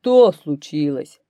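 loud, slow bear voice; growling bear. A narrator's reading. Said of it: "чит". (рычащий медведь, громко и медленно)

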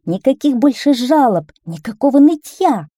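high, loud jubilant cry; cheering along. A narrator's reading. Townspeople cheering the end of complaints, excited. Others join the child's cheering.

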